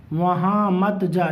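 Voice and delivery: slow, drawn-out primer reading; model reading. Shown as a demonstration. Teacher models primer sentences for pupils, slow measured reading. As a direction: read it out slowly for learners.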